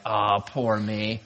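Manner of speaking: slow, low self-pity; mock disappointment. Skier heading home, mildly self-pitying. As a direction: drag it out in mild mock woe. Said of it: "headed home kinda disappointed".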